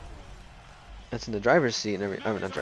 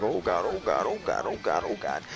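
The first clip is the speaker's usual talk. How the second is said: mock panicked chant, sinking in pitch; imitated freaking out; 2 semitones lower than usual. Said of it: "everyone's, like, freaking out".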